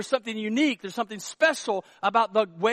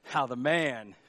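ordinary delivery

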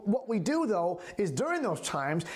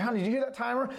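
gentle ask; 3 semitones higher, much faster than usual. Retold or imitated. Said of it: "I didn't say, I said".

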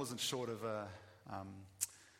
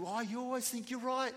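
high, loud mock yell of an angry accuser; imitating someone yelling in anger; retold angry yell; 11 semitones higher, 5 dB louder than usual. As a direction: throw the accusation back as a yell. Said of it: "angry at me and yelling at me".

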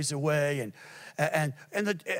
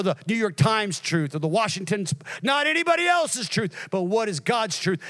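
emphatic sermon cadence peaking mid-run; driving preaching; 4 semitones higher, 3 dB louder than usual. Real, not acted. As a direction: hammer out the list like a preacher. Preaching at full force.

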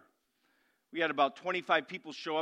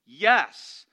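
emphatic yes; 2 semitones lower, 9 dB louder than usual. Real, not acted. Pastor answering own question loudly.

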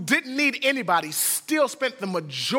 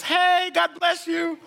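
higher, slower, laughing, over-bright pastor hello; fake cheery greeting; 9 semitones higher, slower than usual. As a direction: cover not recognising her with a big laughing hello. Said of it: "Who is this?".

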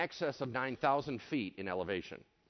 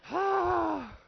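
high, long exhaled gasp; loud breathy sigh; 3 dB louder than usual. Acted. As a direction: let out a big acted sigh. Imitates the stunned onlooker's reaction.

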